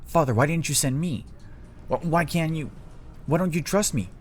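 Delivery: high-pitched, indignant disbelief; shocked, unhinged. Acted. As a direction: escalate from stunned question to wounded pleading, pitch climbing. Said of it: "Azula is actually in shock".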